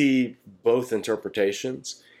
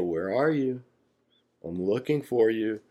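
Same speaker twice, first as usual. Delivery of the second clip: playful seeking. Retold or imitated. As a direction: coax the hiding child gently. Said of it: "You make a big deal".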